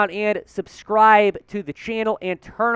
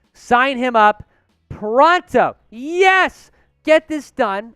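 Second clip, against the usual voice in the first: excited; 3 semitones higher, 4 dB louder, much slower than usual. Real, not acted. Excited call to sign player.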